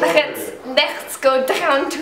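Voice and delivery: slow, halting mock German accent; clumsy German accent, breaking into laughter; attempted German accent. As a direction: labour through a bad German accent. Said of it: "I give up with German".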